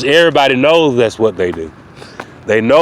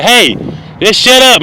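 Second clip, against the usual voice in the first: much higher, louder shut-up; Chief Murphy snapping; 8 semitones higher, 3 dB louder than usual. Retold or imitated. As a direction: cut him off hard. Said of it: "He said".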